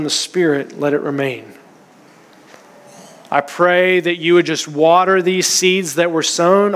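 earnest, steady prayer voice; closing prayer. Acted. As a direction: pray over the congregation, unhurried. Pastor leads closing prayer.

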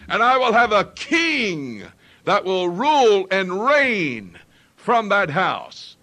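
slow, loud, deliberate decree; preacher voicing God crowning the king, slow and loud; booming voice of God. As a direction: let each word ring like a royal decree. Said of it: "What he is saying is".

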